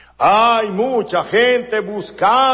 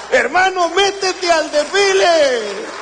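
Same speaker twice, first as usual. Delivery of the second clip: fervent preaching; 10 semitones higher than usual. Real, not acted. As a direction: urge the congregation, full force. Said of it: "preaching climax".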